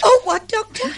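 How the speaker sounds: sudden high alarmed cry; startled. Acted. Secretary startled by the doctor's joke, alarmed cry. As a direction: jump at the word murder.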